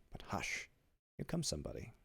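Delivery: very soft, near-whispered caution; hushed warning. A narrator's reading. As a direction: drop to a hush, someone may hear. Warns that someone is coming.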